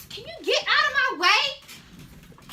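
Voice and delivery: amused, slow, teasing line; laughing sass. Retold or imitated. Girl mocking the weak kick, laughing. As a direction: tease through a laugh.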